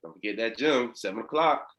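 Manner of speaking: mock check-in call, building in pitch and volume; acted check-in reminder. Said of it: "just check in and follow up".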